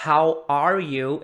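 loud, slow "How are you" without any d; contrasting HOW ARE YOU. Shown as a demonstration. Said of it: "é outra coisa". ("How are you" devagar e claro, sem d)

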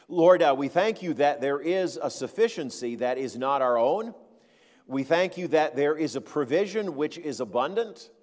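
steady, reverent prayer voice; closing prayer. Acted. Pastor prays for the congregation, reverent and steady. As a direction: lead the church in prayer.

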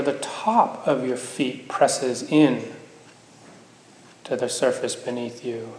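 unhurried meditation guidance with long pauses; guided meditation. Acted. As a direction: gently guide them into the body, leaving space between phrases.

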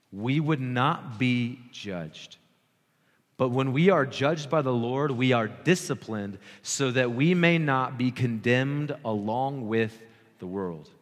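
drawn-out, deliberate words; slow reading. Real, not acted. Preacher reads on so they understand, very slowly. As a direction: stretch out the key words of the verse. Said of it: "I'm gonna read this slowly".

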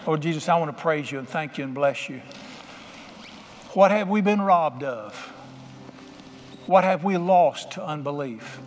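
fervent pastoral prayer over music; preaching prayer. Acted. Pastor praying over his congregation, fervent. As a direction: pray over the room with rising fervor.

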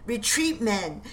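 high-pitched call to fall back; yelling retreat. Acted. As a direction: call the men off the hill. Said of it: "Prescott then is yelling".

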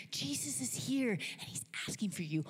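urgent news, fairly contained; Martha. Acted. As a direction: pass the message on to a sister. Martha brings Mary the news.

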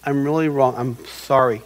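acted contrite confession; humble apology. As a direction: own up quietly and simply. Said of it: "when you go up and say".

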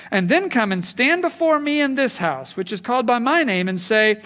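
loud, forceful reading of a prophet's rebuke; preacher reading Jeremiah to the congregation, forceful and rising; scripture reading. Acted.

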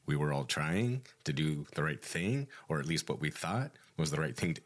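rising valley-girl intonation, lightly mocked; sorority girl up talk. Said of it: "when people do that up talk".

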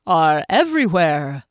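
a showman unveiling a secret; grand little conjurer; halfling Skimnoddle. A narrator's reading. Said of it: "he said".

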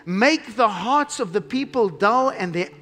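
slow, declaimed prophecy with stretched key words; slow, solemn proclamation; scripture reading. Acted. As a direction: read it out weightily, phrase by phrase. Reads Isaiah's prophecy aloud.

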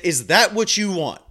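firm, pointed question to the patient; stern challenge. Retold or imitated. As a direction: press her hard with it. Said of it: "In, in this tone".

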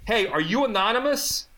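high, laughing mock cop voice. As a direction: tease like a smug cop, through laughter. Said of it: "They're like".

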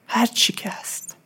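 whispered. Real, not acted. Softly repeats acceptance phrase.

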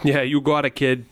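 lightly put-on Boston accent, playful; a hint of Boston in every vowel, drop the r's; thick Boston accent. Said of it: "That's quite the accent you got going on there".

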